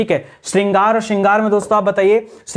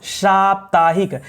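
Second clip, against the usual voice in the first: slow repeated word; much slower than usual. Shown as a demonstration. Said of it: "क्या हो जाएगा?".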